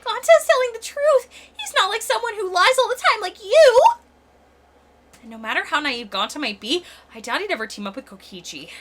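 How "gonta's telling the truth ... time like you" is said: high, earnest big-guy voice; gentle giant voice. Acted. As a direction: plead like a simple gentle giant. Gonta voiced, high and insistent.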